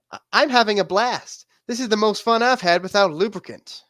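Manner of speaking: a hint of a whiny sarcastic guy. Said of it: "I really wanna do the quote in the guy's voice".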